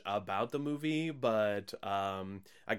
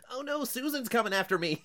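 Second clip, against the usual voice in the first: mock scared; 12 semitones higher than usual. Mock victim quote.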